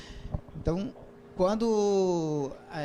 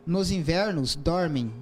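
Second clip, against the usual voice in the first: haiku reading; 3 dB louder, slower than usual. Shown as a demonstration. Reads haiku aloud.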